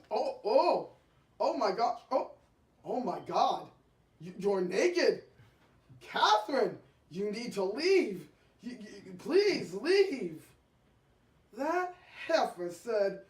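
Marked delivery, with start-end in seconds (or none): 0.1-10.4 panicked pleading. Retold or imitated. Husband panicking at naked visitor.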